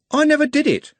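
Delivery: very high, cracking denial, NEVER stressed; desperate denial. Acted. Trev denying the killing to Haddock, desperate high cry. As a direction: blurt it out.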